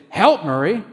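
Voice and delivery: an angel raising its voice to grab Murray's attention; angel calling out. Retold or imitated. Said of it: "send an angel and say".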